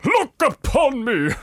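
slow, high, booming proclamation; hammed-up grand spirit, loud and drawn out; Ghost of Christmas Present. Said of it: "you're the ghost of Christmas present".

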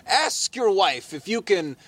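slow, drawn-out mock Brooklyn accent; attempted Brooklyn accent. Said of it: "trying to do, like, a Brooklyn accent".

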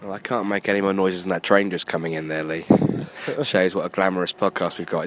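losing his voice; rough, hoarse recovering voice. Real, not acted. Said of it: "his voice has been kind of, well, it's been absent".

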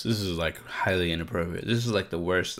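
talking while chewing almonds; mouth full. Real, not acted. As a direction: speak around a mouthful of almonds. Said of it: "I'm sorry I'm eating almonds".

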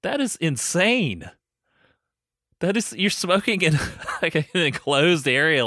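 high, loud disbelief; incredulous. Real, not acted. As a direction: exclaim it in disbelief. Outraged at smoking on planes.

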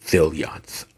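zealots said low as ZEEL-yots; Southern take on zealots, with a Y glide. Real, not acted. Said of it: "I'm from the South".

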